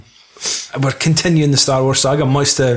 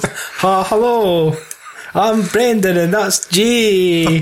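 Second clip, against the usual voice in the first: higher, slow mock American host voice; Brendan impression; 6 semitones higher, much slower than usual. Imitating the American podcaster Brendan, slow mock American accent. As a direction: put on a drawn-out American greeting. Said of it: "yeah, it's Brendan".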